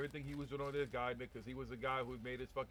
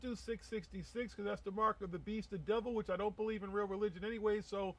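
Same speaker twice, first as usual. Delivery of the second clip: mock guru voice; 8 semitones higher, 4 dB louder than usual. Mocking guru voice.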